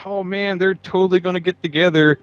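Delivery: mock swooning nerd. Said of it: "and just like".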